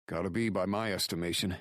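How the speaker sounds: steady, blunt partner; gruff friend voice. Acted. Drake's voice, fast.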